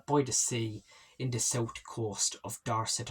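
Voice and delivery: lightly put-on Irish accent; a hint of mock Irish accent. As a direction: slip playfully into a mild Irish lilt. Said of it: "I'm doing an Irish accent".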